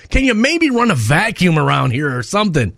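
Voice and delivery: high-pitched, grossed-out groan into a plea; mock disgust. Customer retelling his reaction to barbershop hair, disgusted. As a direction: recoil in exaggerated disgust.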